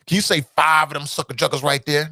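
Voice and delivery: lightly voiced Shannon Sharpe taunt; a hint of the Shannon Sharpe tease; Shannon Sharpe impression. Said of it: "That's my Shannon Sharpe right there".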